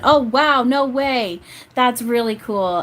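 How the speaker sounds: high bright burst of real delight that settles slowly; delighted surprise. Real, not acted. Reacting to a sitter's career plans, genuinely thrilled. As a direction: gasp it out, thrilled by the news.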